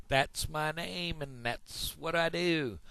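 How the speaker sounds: high-pitched, drawn-out frog voice; big-mouth frog. Acted. Frog introduces himself to another animal, high and slow. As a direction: stretch it out high as a cartoon frog. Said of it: "I'm the big mouth frog".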